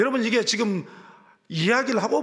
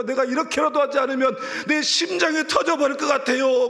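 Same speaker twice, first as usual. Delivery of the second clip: raised, pleading and anguished; retold anguished cry; 6 semitones higher than usual. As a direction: cry it out as if your heart will burst. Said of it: "제가 울부짖었어요".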